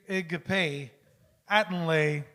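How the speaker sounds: "Igpe Atenle" shown word by word; Pig Latin demonstration. Shown as a demonstration. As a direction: sound out "Igpe Atenle" with a pause between. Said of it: "you put an A. So, like".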